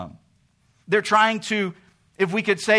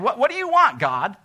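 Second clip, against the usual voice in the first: mock impatient demand; 3 semitones higher, 4 dB louder than usual. Israel voiced demanding from God.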